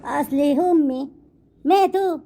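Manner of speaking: high, drawn-out mimicry of an excuse; mocked excuse. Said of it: "وتقول".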